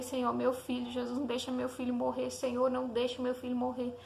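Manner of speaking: retold prayer, mildly pleading in a steady run; súplica chorosa contida. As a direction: plead to God without open sobbing. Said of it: "eu comecei a chorar". (súplica chorosa, levemente encenada)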